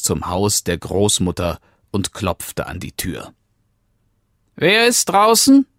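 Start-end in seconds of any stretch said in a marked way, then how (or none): 4.6-5.7 put-on old grandmother. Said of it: "fragte die Großmutter".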